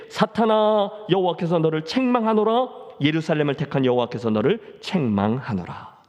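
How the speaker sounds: a hint of a stern divine rebuke; God rebuking Satan. Preacher voicing God rebuking Satan, stern and firm. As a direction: declare the rebuke with firm authority. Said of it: "여호와께서 사탄에게 이르시되".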